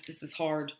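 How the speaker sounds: a secret little whisper; whispered aside. Real, not acted. Teacher whispering aside to viewers, whispered. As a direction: whisper it under breath.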